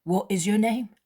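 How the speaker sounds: ragged beggar, puzzled. Acted. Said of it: "and he asks".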